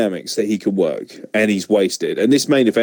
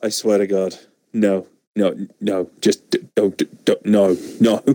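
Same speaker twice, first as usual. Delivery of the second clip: mock furious Gulak; 3 semitones lower than usual. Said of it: "he's just like".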